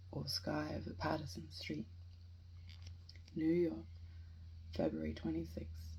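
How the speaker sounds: measured poem reading with deliberate pauses; solemnly recited free verse; poetry reading. Acted. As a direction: read it line by line, letting each image stand. Reads a poem aloud.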